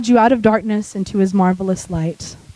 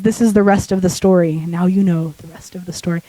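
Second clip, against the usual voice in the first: lightly imitated deep radio sign-off, dropping lower; a hint of a deep storyteller's catchphrase; Paul Harvey; 4 semitones lower than usual. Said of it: "my voice is getting that deep".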